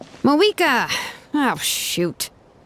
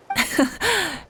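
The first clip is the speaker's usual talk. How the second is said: gloating laugh; 6 semitones higher, 3 dB quieter than usual. Real, not acted. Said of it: "You sound like someone who's finally gotten the chance to strike back".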